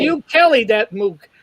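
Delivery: put-on Brooklyn accent. Guest reading writers' credits, mock Brooklyn accent. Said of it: "that's gotta be a Brooklyn accent".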